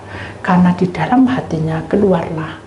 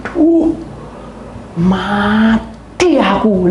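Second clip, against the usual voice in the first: frightened gasp; 2 semitones higher, much slower than usual. Retold or imitated. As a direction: gasp in fear of dying. Frightened man sees death.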